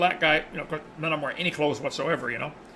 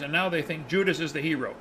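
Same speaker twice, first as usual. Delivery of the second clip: retold exasperation. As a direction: wrap up the grievance in disbelief. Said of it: "pulling his hair out".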